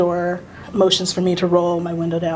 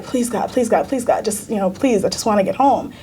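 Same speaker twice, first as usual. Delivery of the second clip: retold terrified prayer; 2 semitones higher than usual. Terrified at the traffic stop, she pleads to God. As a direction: beg God to let you get home. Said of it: "I'm terrified".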